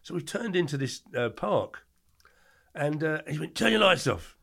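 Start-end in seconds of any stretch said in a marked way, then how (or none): 3.5-4.4 shouted order. Retold or imitated. Mate shouting in ear.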